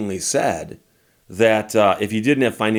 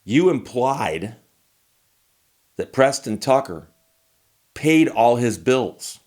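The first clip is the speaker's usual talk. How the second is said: slow, deliberate accusing tone; slow accusation; 3 semitones higher, slower than usual. Retold or imitated. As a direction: spell out the charge slowly, pointedly. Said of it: "And she said".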